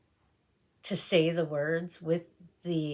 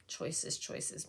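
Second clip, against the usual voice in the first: breathy undecided whisper; whispered choices, choices; whispered musing; 7 dB quieter than usual. Real, not acted. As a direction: mull it over under your breath. Musing over lipstick.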